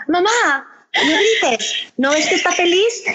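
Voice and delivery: put-on high little-girl voice scolding mom; toddler voice. Toddler in the car telling mom not to yell, high little-girl voice. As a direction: play the two-year-old telling mom off.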